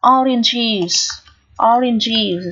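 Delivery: "oranges" ending in an iz sound; "oranges" said carefully with a full iz ending; pronunciation demo. Shown as a demonstration. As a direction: model "oranges" twice, ES as iz. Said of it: "E S ở đây được phát âm là âm is".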